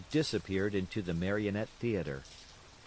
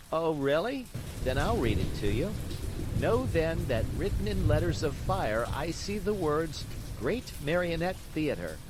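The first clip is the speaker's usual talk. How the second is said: put-on louder, higher teasing boy; mock him grandly; 6 semitones higher, 4 dB louder than usual. A narrator's reading. Little boy teases Pinocchio who can't read.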